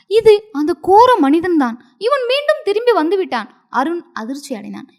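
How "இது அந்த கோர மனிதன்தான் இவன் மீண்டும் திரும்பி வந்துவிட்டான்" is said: trembling voice. Acted. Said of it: "நடுக்கம் கலந்த குரலில் கூறினாள்".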